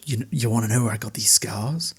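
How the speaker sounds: breathy unvoiced menacing whisper; Joker whisper. Miller threatening the guard, done as a whispered Joker impression. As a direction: hiss it like a movie villain toying with a victim. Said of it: "full Joker mode of".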